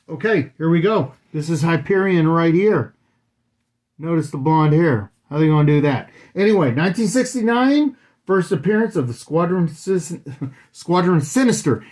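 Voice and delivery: muffled behind a mask; through a face mask. Real, not acted. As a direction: talk with a mask over your mouth. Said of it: "how difficult it is to talk through a mask".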